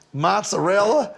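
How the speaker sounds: "mozzarella" stretched slowly, full Italian vowels. Shown as a demonstration. Host demonstrating the proper Italian "mozzarella" for the network. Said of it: "wanted me to lean into".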